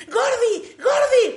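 high-pitched, urgent calling out; panicked yelling. Retold or imitated. Father yelling for his wife over a spider, panicked. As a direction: imitate a desperate yell for help. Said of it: "de repente empieza a gritar".

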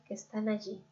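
calm guided-visualization voice with long pauses; guided meditation. Real, not acted. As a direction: lead the listener gently inward, leaving room to breathe. (meditación guiada, pausada y serena)

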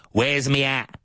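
a Cockney asking for his hat; Cockney accent. Shown as a demonstration. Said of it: "in Cockney English".

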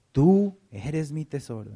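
slow, tender, as God calling his treasure; tender divine voice. Acted. God speaking from the open sky, slow and tender. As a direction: cherish them through each word, slowly.

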